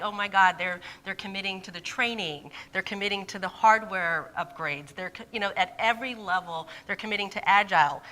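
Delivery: recounting her astonished reaction, lively; retold amazement. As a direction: act out being mildly shocked. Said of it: "I was so shocked".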